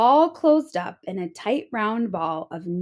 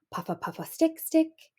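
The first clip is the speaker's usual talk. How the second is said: hedgehog noises; 6 semitones higher than usual. A narrator's reading. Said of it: "Hedgie went".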